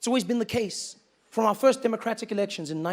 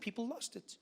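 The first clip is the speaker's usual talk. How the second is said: ordinary talk, nothing marked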